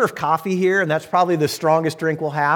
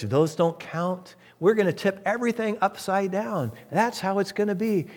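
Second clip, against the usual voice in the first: defiant dismissive voice; 3 semitones lower than usual. Pretend. Voicing defiant churches.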